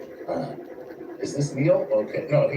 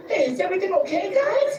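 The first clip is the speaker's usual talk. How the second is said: much higher and quick, a friendly check-in; dorky Superman. Retold or imitated. Imitating comic Superman greeting everyone, much higher and fast. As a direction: play Superman as a sweet, goofy guy. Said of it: "that's how he talks".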